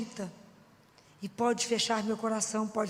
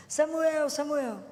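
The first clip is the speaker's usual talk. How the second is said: a higher, louder call of the name; God calling the sleeping boy Samuel, a louder call; 5 semitones higher, 3 dB louder, much slower than usual. Acted. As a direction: call him from afar as God. God calls the boy again.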